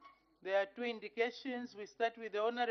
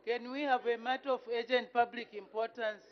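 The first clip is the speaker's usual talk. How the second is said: laughing; 3 semitones higher, 6 dB louder than usual. Real, not acted. Speaker laughs at the member.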